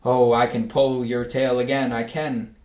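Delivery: put-on furious boy. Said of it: "the boy was furious".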